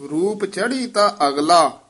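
"ਰੂਪ ਚੜੀ ਤਾ ਅਗਲਾ" as one phrase, resting after "ਅਗਲਾ"; pause placement. Shown as a demonstration. Teacher marking the visram, pause after "ਅਗਲਾ". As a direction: come to rest on "ਅਗਲਾ". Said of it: "ਇੱਥੇ ਵਿਸਰਾਮ ਹੈ".

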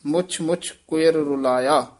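ਮੁੱਛ ਮੁੱਛ pressed a little tight; ਮੁੱਛ ਮੁੱਛ held firm; said a bit tight. Shown as a demonstration. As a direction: tighten the doubled consonant in ਮੁੱਛ ਮੁੱਛ. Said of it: "ਮੁੱਛ ਮੁੱਛ ਥੋੜਾ ਜਿਹਾ ਕਸ ਕੇ ਬੋਲਣਾ".

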